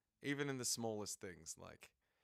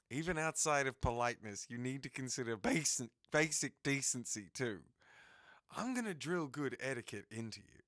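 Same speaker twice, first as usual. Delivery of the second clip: stern lecturing voice; 3 semitones higher, 5 dB louder than usual. Acted. Voicing a stern lecturing character.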